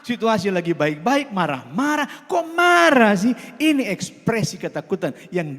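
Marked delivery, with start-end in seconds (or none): 2.3-3.3 high, loud, drawn-out exasperated question; exasperated protest. Acted. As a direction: protest loudly in mock disbelief. Acts out reaction to needless anger. (protes kesal dengan nada tinggi)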